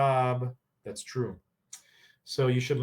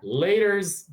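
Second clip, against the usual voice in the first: higher, louder offhand goodbye; breezy; 6 semitones higher, 6 dB louder than usual. Retold or imitated. Securely attached kids leaving, breezy. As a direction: toss it off carelessly. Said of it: "They're like".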